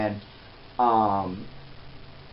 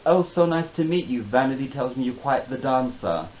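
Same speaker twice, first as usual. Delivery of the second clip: lightly mimicked British English; British accent; 3 semitones higher than usual. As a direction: put on a British accent for a gracious greeting. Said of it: "in her British accent".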